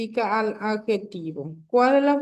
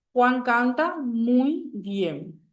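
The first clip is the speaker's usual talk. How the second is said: "Juan canta muy bien" slow, stress on Juan; slow example again; much slower than usual. Shown as a demonstration. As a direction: read the sentence slowly, leaning on Juan. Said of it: "Entonces la palabra muy". (lectura lenta del ejemplo)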